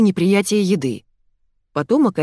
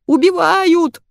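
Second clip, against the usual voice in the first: much higher, slow shrill squeal; 11 semitones higher, 6 dB louder, much slower than usual. A narrator's reading. Fyodor squeals for help from the floor. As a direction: shriek for rescue. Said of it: "верещал Фёдор".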